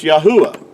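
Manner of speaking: "Yahuwah" as ya-HOO-ah; name without hard W. Shown as a demonstration. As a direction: lean on the oo in "Yahuwah". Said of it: "is pronounced".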